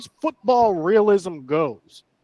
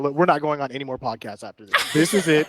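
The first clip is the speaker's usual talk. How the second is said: laughing; faster than usual. Retold or imitated. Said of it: "I was like".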